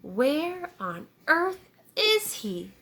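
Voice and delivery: a hint of a worried cow; lightly voiced wondering cow. A narrator's reading. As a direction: wonder aloud like a puzzled cow. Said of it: "wondered the cow".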